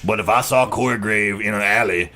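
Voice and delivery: lightly voiced Booker T; Booker T impression. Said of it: "That was my Booker T impression".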